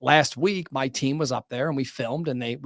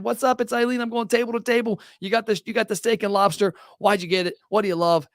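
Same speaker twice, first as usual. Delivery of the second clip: mock table-side live video; 5 semitones higher than usual. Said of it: "went up to a table and said".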